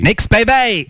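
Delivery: high sports cheer. Real, not acted. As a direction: whoop it like a fan in the stands. Cheering for the Knicks.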